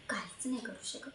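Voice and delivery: soft, low, helpless admission; quiet resignation. Acted. Young teacher admitting helplessness to her friend, quietly resigned. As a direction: let it drop away, resigned.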